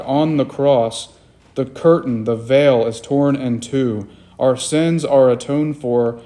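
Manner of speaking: subdued, measured pastoral prayer. Real, not acted. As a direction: pray aloud sincerely, settling down toward the amen. Leads congregation in prayer.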